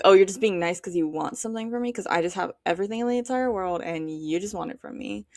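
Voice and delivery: lightly mocking, quick cocky rant. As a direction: imitate someone full of themselves, rattled off quickly. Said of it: "sounds like a really cocky thing".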